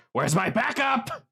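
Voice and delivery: high, drawn-out call for help; hammed-up high shout of a cornered fighter; acted shout. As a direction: call out high, without much extra volume. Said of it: "you hear him shout out".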